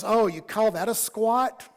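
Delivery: drawn-out mock of someone's effort. Gym intruder heckling someone doing squats, mocking. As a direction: imitate a heckler, taking it slowly. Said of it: "he starts mocking me".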